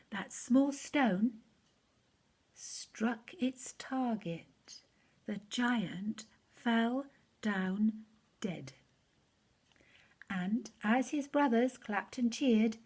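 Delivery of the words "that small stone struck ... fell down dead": slow, weighty storytelling; slow climax. A narrator's reading. Telling children how the giant fell, slow and dramatic. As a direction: let each word land slowly.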